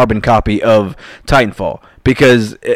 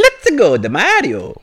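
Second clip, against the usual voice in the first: high-pitched cartoon plumber catchphrase; Mario; 7 semitones higher, slower than usual. Podcast host showing off a voice on request, in a Mario impression. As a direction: shoot up high, then drop on the name. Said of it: "do any voices".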